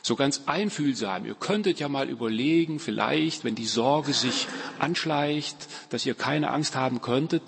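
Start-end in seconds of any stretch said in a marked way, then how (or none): 1.3-7.4 lightly mocking gentle tentative tone; a hint of overcautious counsellor; mock soft therapy-speak. Preacher parodying soft psycho language, lightly mocking. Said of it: "die Psycho-Soft-Sprache, so ganz einfühlsam".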